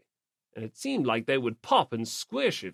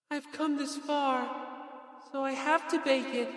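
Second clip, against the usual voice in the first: Fujisaki's resolve; 9 semitones higher, 6 dB quieter than usual. Acted. Fujisaki resolving to bake bread.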